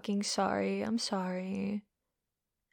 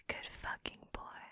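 breathy teasing whisper; 17 dB quieter than usual. Acted. Teasing her partner, whispering praise. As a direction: whisper the praise close to his ear.

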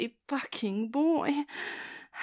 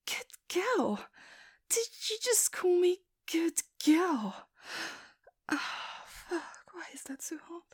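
flustered whisper; 5 semitones higher, 4 dB quieter than usual. Acted. Flustered by being called good girl.

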